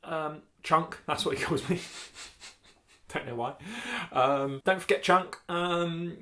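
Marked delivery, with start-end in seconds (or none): 0.0-1.0 a hint of a Londoner quoting his friend; mild London accent, imitating; a touch of London twang; light London accent. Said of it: "what's his accent? Sort of Lon-, Londoner". 4.6-5.4 accidental Australian twang on a mock London voice; slipped into a light Aussie accent; Australian-sounding accent. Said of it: "That went Australian".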